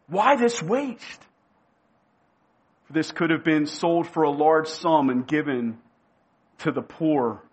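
grieved indignation, drawn out slowly. Shown as a demonstration. Disciples grieving over the wasted ointment, slow and pained. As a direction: stretch each word like a grieving complaint. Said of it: "They grieved much".

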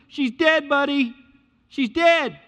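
high, loud scornful jeer; ridiculing. Retold or imitated. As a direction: imitate mockers scoffing at a fool. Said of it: "They ridicule him".

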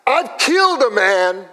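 high, loud mock threat; retold tough-guy menace; menacing stranger. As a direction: bark it like a dangerous man. Menacing man on Bourbon Street.

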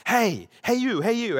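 mock tipsy stranger hollering hey you; calling out. Tipsy woman outside restaurant calls to passing pastor, hollering. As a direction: call across the patio to get his attention.

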